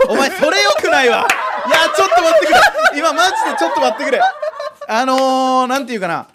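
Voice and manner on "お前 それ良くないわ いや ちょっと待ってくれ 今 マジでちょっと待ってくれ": louder, higher, laughing protest. Real, not acted. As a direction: protest while cracking up. Breaks up laughing at partner.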